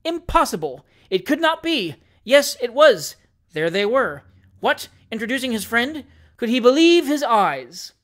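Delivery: high, loud incredulous exclamations; outraged disbelief. A narrator's reading. Narrator voicing jilted Doctor Slammer, incredulous.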